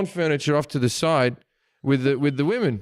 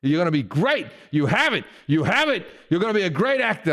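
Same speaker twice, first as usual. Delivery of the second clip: rough impersonation, emphatic praise; lightly voiced star, punching each phrase; Al Pacino; 3 semitones higher, 4 dB louder than usual. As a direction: build insistently through the compliments. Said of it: "it's not the best impersonation".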